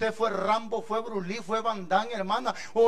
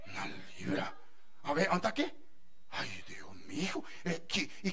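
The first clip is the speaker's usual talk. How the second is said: voz grave y apagada de madre que desconfía; madre incrédula; 10 semitones lower, 11 dB quieter than usual. Retold or imitated. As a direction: una madre que no se cree lo que oye. (madre que duda del peso, en voz grave y baja)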